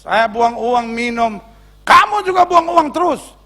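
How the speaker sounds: mock husband's tirade, jumping up high; high-pitched acted scolding; angry husband. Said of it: "Bapak marah dulu".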